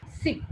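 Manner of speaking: "Sip" with a voiceless hissed s; unvoiced S. Shown as a demonstration. Teacher showing no vibration, unvoiced S. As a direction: open "Sip" on air, no vibration. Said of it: "It is unvoiced".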